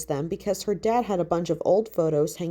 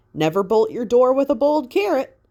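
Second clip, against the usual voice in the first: higher, louder, a hint of her dad's brogue; lightly mock her father's Irish wisdom; Irish saying; 6 semitones higher, 6 dB louder than usual. Haley recalls her dad's saying, light Irish lilt.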